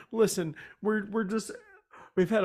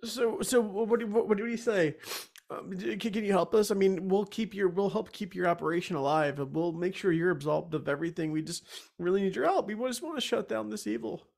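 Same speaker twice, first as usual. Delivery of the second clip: tearful pleading; 3 semitones higher than usual. Real, not acted. Crying adventurer pleads with the Furbolg, rushed and tearful. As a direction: plead fast, teary and desperate. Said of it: "I'm really crying".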